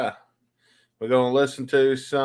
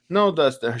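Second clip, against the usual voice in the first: higher-pitched mock Cuban accent; Cuban-accented correction, pitched up; imitated Cuban accent; 5 semitones higher, 4 dB louder than usual. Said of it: "this is just how she talked".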